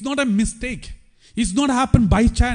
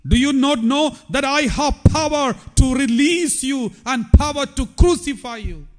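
mild Pilate anger; 5 semitones higher than usual. Retold or imitated. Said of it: "Pilate was so angry with Jesus".

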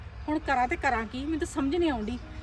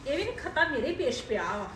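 softer, lower muttered plotting; scheming aside; 4 semitones lower, 6 dB quieter than usual. Acted. Mother-in-law alone after the quarrel, quietly plotting. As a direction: mutter your scheme to yourself.

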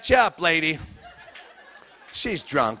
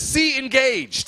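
slow dictionary read; 5 semitones higher, much slower than usual. Retold or imitated. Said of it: "It says".

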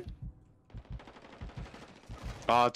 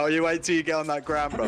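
mock taunt; 2 semitones higher than usual. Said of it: "talk shit, but like".

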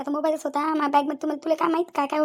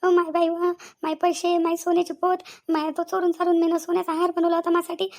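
crying; 2 semitones higher than usual. Acted. Mother mourning her stolen money and gold, crying. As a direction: wail over everything that was stolen. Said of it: "रडू नका, रडू नका".

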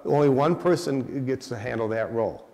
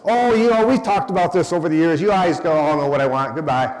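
dismissive dad; 3 semitones higher, 4 dB louder than usual. Retold or imitated. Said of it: "She called him back up and said".

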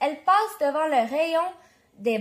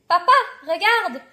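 louder, lively "look at me"; eager child's call; 3 semitones higher, 5 dB louder than usual. A narrator's reading. Catherine shows dad her loaded cart, eager call. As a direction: call dad over excitedly.

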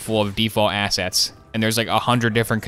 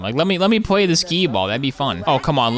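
ordinary talk

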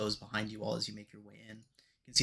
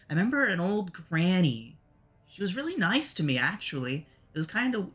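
higher-pitched character recalling a place; Lulu; 4 semitones higher than usual. Acted. Lulu answers whether this looks familiar, in higher character voice. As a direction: voice a creature remembering, pitched up. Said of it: "She's like".

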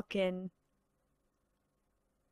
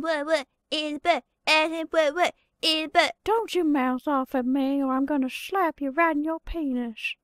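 cartoon brat impression; 3 semitones higher than usual. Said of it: "some of these impressions".

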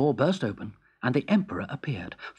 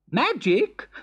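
eager; 10 semitones higher, 3 dB louder than usual. Acted. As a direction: repeat "Magic?" keenly, rising. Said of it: "said the excited Emperor".

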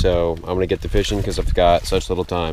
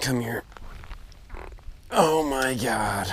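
excited disbelief; 5 semitones higher, 7 dB quieter, slower than usual. Real, not acted. Landing big fish.

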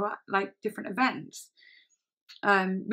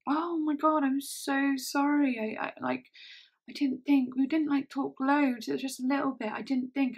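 higher, imitated gushing apology; mock-apologetic, pitched up; flustered apology; 5 semitones higher than usual. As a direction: play a friend stumbling through excuses. Friend's flustered apology, acted out.

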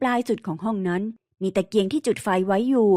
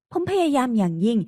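plain reading voice

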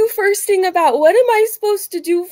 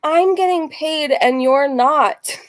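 smug taunt; 2 semitones lower, slower than usual. Real, not acted. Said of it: "Why don't you rage about that?".

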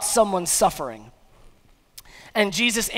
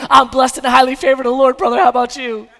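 churchy Christianese; 6 dB louder, faster than usual. Retold or imitated. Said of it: "Christianese, someone says".

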